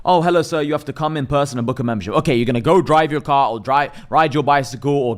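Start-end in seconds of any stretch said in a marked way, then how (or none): 0.0-2.1 lightly voiced receptionist. Gym receptionist telling the caller to come in person, politely. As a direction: answer like a cheery gym front desk.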